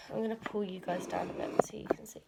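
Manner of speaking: quick whispered aside while moving the camera; hushed aside to the viewers. Real, not acted. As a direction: drop to a whisper off to the side. Adjusting camera mid-video, whispered aside.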